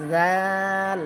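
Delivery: light জাল, vowel held; thin zal. Shown as a demonstration. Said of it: "দুটা দাঁতের আগার সাথে". (জাল পাতলা করে)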